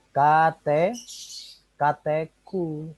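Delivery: "kateku" slowly, syllable by syllable; correcting pronunciation. Shown as a demonstration. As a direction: model "kate", then a drawn-out "kateku". Teacher corrects student's Katseku reading. (ucapkan "kateku" pelan, suku demi suku)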